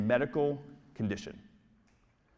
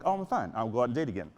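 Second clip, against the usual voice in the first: breezy recovered; 3 semitones lower, faster than usual. Retold or imitated. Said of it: "you'll be like".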